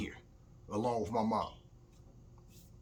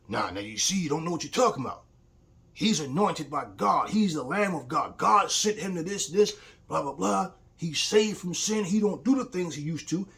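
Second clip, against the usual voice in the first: higher and louder, indignant preaching tone; father's heated defense; 6 semitones higher, 6 dB louder than usual. Retold or imitated. Father scolds son over preacher, mock indignant. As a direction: play the father insisting the preacher is holy.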